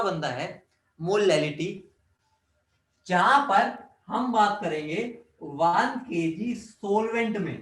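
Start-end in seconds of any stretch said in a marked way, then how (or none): 3.1-7.6 slow, spaced-out one KG सॉल्वेंट; deliberate emphasis. Real, not acted. Teacher flagging the twist from solution to solvent, slow and emphatic. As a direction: lean slowly on सॉल्वेंट, pausing before it. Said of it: "दोबारा बोल रहा हूं".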